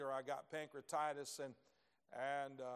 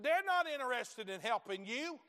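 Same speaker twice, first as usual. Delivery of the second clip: retold harsh retort; 8 semitones higher, 6 dB louder than usual. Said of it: "I said".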